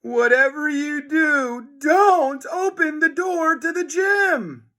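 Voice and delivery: high frantic warning; panicked boy pleading; urgent warning. A narrator's reading. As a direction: beg them not to. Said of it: "cried George".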